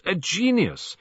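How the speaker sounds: Poirot prijst de kokkin uitbundig; effusive praise. A narrator's reading.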